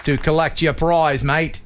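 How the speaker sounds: put-on doubtful Irish accent, thick on "mate"; joking stab at an Irish accent; attempted Irish accent. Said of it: "that was a pretty good Irish accent".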